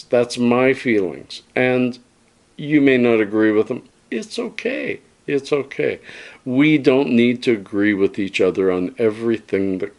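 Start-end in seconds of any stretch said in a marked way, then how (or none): 4.1-6.0 high, soft, gentle reassurance. Real, not acted. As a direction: lift it high and soft to soothe. Reassuring viewers who may disagree.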